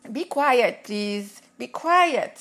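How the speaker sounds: stern teacher. Retold or imitated. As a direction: hush the talkative kids like a teacher. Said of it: "Ça, c'était pour les petits bavards".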